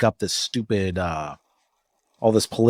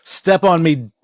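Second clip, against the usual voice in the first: mock pleading; 3 semitones higher, 5 dB louder than usual. Voicing the crushed guy.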